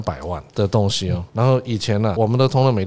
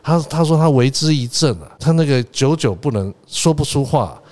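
excited report; 3 semitones higher than usual. Retold or imitated.

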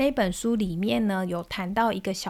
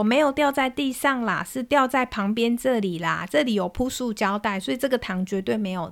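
hurried vendor. Retold or imitated. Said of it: "切糖的师傅就赶紧说".

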